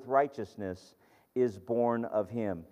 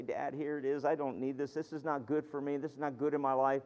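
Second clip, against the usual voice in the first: put-on softer, childlike plea to Dad; child to Dad; 6 dB quieter than usual. Child handing a bad thing to Dad, softly. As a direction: hand it over like a little child, gently. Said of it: "like a little child would".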